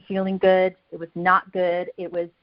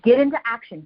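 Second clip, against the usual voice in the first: louder, punchy call to action; louder push; 2 semitones higher, 5 dB louder than usual. Real, not acted. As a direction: push the word get hard, louder. Coach urging listeners to act.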